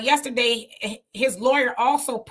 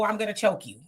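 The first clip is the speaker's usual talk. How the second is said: laughing; 2 semitones lower, 3 dB quieter than usual. Real, not acted. Joking about his own threats.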